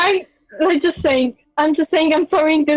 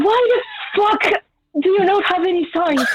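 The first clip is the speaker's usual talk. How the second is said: higher, laughing outburst; laughing shout; 5 semitones higher than usual. Real, not acted. Player outraged, laughing.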